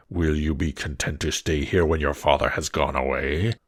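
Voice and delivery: low, looming beast voice; a monster asking gently. Acted. Beast asks Beauty if she came willingly, low and heavy.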